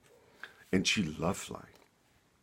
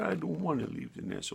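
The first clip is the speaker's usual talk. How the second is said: whiny little bird; 8 semitones higher, 4 dB quieter than usual. A narrator's reading. Sally refuses to leave.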